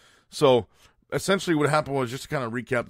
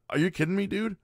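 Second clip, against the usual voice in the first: incredulous; 8 semitones higher than usual. Real, not acted. Host outraged by viral video.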